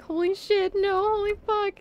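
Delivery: swearing in real panic as he falls; panicked cursing. Retold or imitated. Genuinely panicking for a second.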